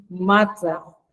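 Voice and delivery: मात्रा with its first आ drawn out; long held vowel. Shown as a demonstration. Teacher demonstrating syllable timing, long held vowel. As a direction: hold the मा of मात्रा for double time. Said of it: "जब माँ बोलते हैं तो double time लगता है".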